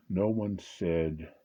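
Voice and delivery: each word drawn out slowly; no one said, spoken very slowly; slow and deliberate. Shown as a demonstration.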